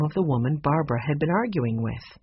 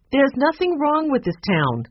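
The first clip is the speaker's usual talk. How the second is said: sharp, higher indignant snap; snapping; 11 semitones higher, 4 dB louder than usual. Acted. Barbara snapping at Mister Alden about her town. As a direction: bristle in defence of the town. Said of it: "I didn't mean to snap at you".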